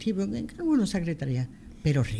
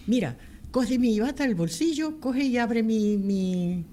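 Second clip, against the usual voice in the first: hurried, raised pitch, pleading doctor; urgent doctor on phone; 4 semitones higher than usual. Retold or imitated. Doctor calling from surgery, urgently asking for the X-ray. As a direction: rush the words like a surgeon mid-operation.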